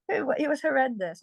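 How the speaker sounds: half laughing. Real, not acted. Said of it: "Honestly, I laugh".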